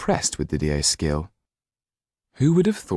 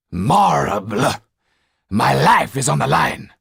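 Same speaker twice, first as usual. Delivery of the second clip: panicked; 8 semitones higher, 5 dB louder, slower than usual. Acted. Hulot panics aloud.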